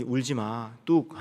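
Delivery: 가볍게 어르다 "뚝"에서 높게 끊기; 아이 달래듯 짧게 울음 그치라고; 가볍게 달래기. Retold or imitated. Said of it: "그냥 위로 차원에서 하는". (살짝 흉내 낸 달래는 말투)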